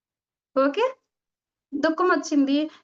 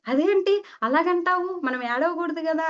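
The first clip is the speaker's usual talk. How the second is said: higher-pitched, mock-indignant objection; retold protest; 5 semitones higher than usual. Friend objects to being told to cry, protesting.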